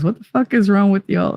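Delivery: a touch of Jersey in the challenge; thick Jersey accent. Acted. Streamer quoting a viewer's impression of her, Jersey accent. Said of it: "in a thick Jersey accent".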